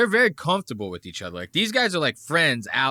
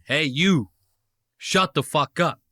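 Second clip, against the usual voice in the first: lightly voiced bear picking a fight, pitched up; mock challenge from one bear to another; bear talking tough; 3 semitones higher, 3 dB louder than usual. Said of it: "This is what they would be saying".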